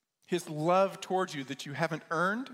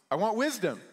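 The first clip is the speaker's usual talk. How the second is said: higher and louder, breathless; gasping answer; 6 semitones higher, 6 dB louder than usual. Retold or imitated. Young man surfacing from the water, breathless. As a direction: gulp it out after being held under.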